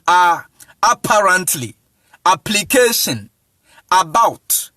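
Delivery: A, Apparently, Application, About all on "ah"; broad "ah" opening Apparently, Application and About; open A pronunciation. Shown as a demonstration. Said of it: "You see how it's pronouncing".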